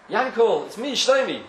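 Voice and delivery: high, loud cry of recognition; a hopeful brother bursting in; excited call. Acted. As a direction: call his brother's name eagerly. Brother calling out in the office.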